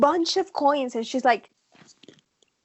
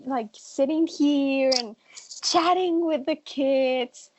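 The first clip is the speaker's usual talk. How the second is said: gushing; 2 semitones higher than usual. Retold or imitated. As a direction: coo over the kids. Gushing about cute kids.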